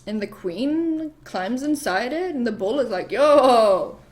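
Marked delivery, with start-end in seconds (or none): 3.1-4.0 loud, drawn-out holler; hammed-up loud greeting; acted excited call. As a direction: call out like an awestruck dude. Bull spots the cow, excited.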